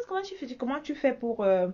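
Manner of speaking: imitating a small girl's curious question; little girl asking. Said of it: "une petite là qui m'a demandé".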